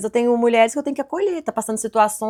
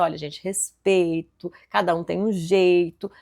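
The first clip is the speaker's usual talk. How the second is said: slow, drawn-out reminder to the team; firm reminder; 3 semitones lower, slower than usual. Retold or imitated. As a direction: stretch the words out to drive them home. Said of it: "a gente sempre reforça".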